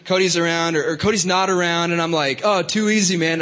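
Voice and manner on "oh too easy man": lightly put-on Australian accent; casual mock-Australian phrase. Speaker slipping into coworker's way of talking, Australian accent. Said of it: "talking like an Australian accent".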